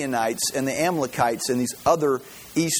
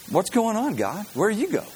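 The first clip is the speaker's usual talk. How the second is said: higher-pitched, lightly acted puzzlement; mock bewildered complaint; 6 semitones higher than usual. Israelites asking God where he went, mock bewildered. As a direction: imitate a people calling God to account.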